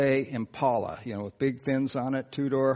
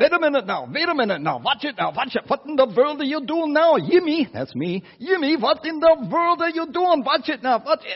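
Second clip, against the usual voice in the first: mock yell, thick Norwegian accent, much higher, louder; 7 dB louder than usual. Retelling his father shouting at him from the cab, imitating dad's Norwegian-accent yell. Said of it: "yelling at me in his thick Norwegian accent".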